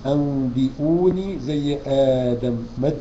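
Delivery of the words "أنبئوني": أنبئوني slow and chanted; slow recitation. Acted. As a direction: draw out the madd like آدم. Recites with madd.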